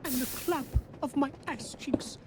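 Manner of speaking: a hint of a dopey teddy bear; slow mock Pooh bear; Winnie the Pooh voice. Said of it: "You sound like Honey the Pooh".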